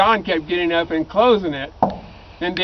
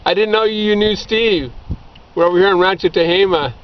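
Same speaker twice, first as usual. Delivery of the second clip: greeting to camera. Real, not acted. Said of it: "if you wanna say something to him".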